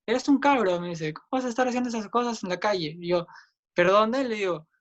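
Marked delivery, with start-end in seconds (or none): 0.0-3.0 higher-pitched mock-angry jab; retold angry insult. Man insults speaker in the street, acted angry outburst. 3.8-4.7 retold affront. Speaker answers the insulting man, acted indignant comeback.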